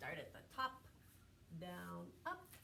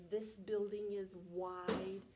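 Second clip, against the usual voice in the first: put-on slow, rhythmic poem for kids; reciting a nursery poem; poem recital; slower than usual. Shown as a demonstration. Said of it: "We say".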